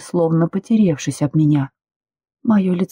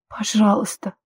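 pleading; 3 semitones higher, 3 dB quieter than usual. Acted. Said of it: "взмолилась я".

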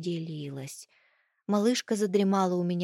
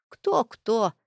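put-on grumbling old woman; 3 semitones higher, 4 dB louder than usual. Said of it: "заворчала старушка".

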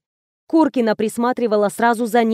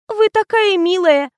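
fawning; 9 semitones higher, 3 dB louder than usual. Acted. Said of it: "залебезила Оля".

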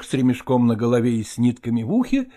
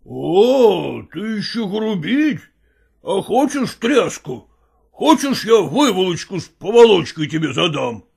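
a hint of a menacing grown man; lightly voiced stepfather promising a thrashing; threatening stepfather; 3 semitones higher than usual. Stepfather threatening the cheeky boy, lightly menacing.

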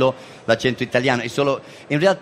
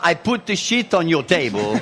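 imitating a student, "sheet" said short like "shit"; earnest learner getting the vowel of sheet wrong; student's mispronounced English; 3 semitones higher than usual. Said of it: "è venuto da me e fa". (inglese sbagliato da studente italiano)

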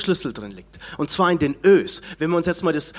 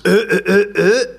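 louder, punched Ö sounds; louder stressed Ö; emphatic Ö; 5 dB louder than usual. Shown as a demonstration. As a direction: hit each Ö hard. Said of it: "das Sprechen".

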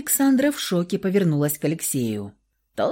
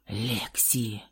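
much lower, soft hoarse croak; quiet rasp; 8 semitones lower, 11 dB quieter than usual. A narrator's reading. Wounded lover croaks her name quietly. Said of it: "тихо прохрипел Михаил".

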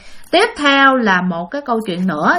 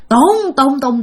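imitating a loud call of the name, a little higher; calling very loudly; 4 semitones higher, 3 dB louder, much slower than usual. Retelling the mother calling the spirit out, mock loud call. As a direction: call out as if to shake the temple. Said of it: "kêu lớn dữ lắm".

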